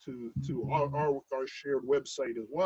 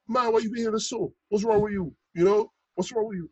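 lightly imitated Bajan accent, higher pitched; rough Bajan accent; 6 semitones higher than usual. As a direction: scold in an imperfect Bajan accent. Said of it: "I can't do his accent justice".

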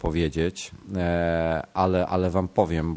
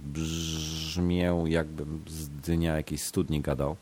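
blocked nose; 2 semitones lower than usual. Real, not acted. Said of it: "mam zatkany nos".

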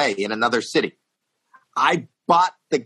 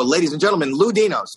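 stage announcer; 4 semitones higher than usual. Retold or imitated. Retold stage introduction of the opener.

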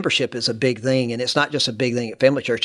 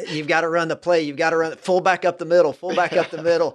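passionate pep talk; 4 semitones higher than usual. Retold or imitated. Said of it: "very passionately telling our team".

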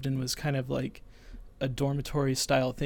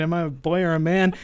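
inner thought; 3 semitones higher, 6 dB louder than usual. Retold or imitated. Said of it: "in my head, I'm thinking".

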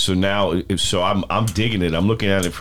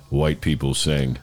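monotone; 5 semitones lower, slower than usual. Retold or imitated. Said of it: "in that same monotone voice".

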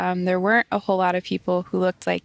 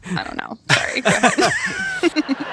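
a laughing, hammed-up Cockney accent; 11 semitones higher than usual. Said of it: "That's my Cockney accent".

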